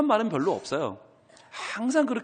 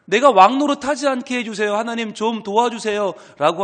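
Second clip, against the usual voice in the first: earnest plea; 3 semitones higher, 4 dB louder than usual. Retold or imitated. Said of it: "하는 간절한 기도예요".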